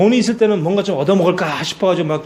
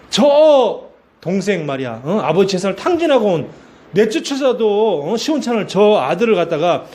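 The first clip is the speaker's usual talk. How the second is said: angry elder son; 3 semitones higher than usual. Acted. Elder son protests feast for brother, acted anger. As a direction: protest to father with stretched, emphatic words. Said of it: "아버지한테 화가 나죠".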